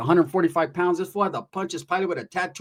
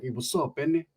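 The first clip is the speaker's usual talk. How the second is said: put-on young gangster; 4 semitones lower, 6 dB quieter than usual. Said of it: "He's like".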